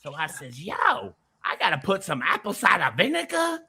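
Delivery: put-on country accent climbing into a high rant. Pink salt seller testifying to Vic, high country voice. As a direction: build a hammed-up country sales rant. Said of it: "I'll do it in the country voice now".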